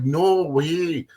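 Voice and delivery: high, delighted "no way"; mock excitement. Officer playing along with the drunk, high and delighted. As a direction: act thrilled at the coincidence. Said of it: "I was like".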